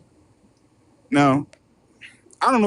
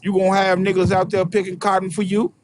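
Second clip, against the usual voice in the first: master voice. Retold or imitated. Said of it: "The master told him".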